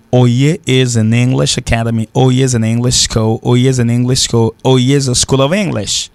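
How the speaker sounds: "O Y E is an English school" dit en anglais; démontrer la phrase anglaise; anglais démontré. Shown as a demonstration. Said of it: "En même cas dit". (démonstration en anglais)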